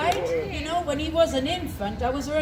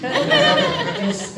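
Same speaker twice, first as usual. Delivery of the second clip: laughing; 14 semitones higher than usual. Real, not acted. Laughing mid-quote.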